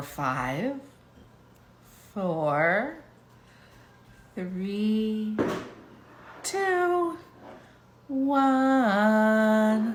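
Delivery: very slow, unhurried delivery, final word drawn out. Showing how to count down when the bath timer goes off, very slowly. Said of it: "you have to literally go that slow".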